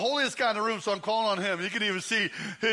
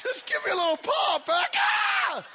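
excited shout; 12 semitones higher, slower than usual. Real, not acted. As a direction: cheer it out at the flex. Pastor flexes, crowd reaction.

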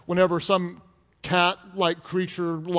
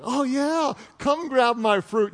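flirty wife; 4 semitones higher, slower than usual. Retold or imitated.

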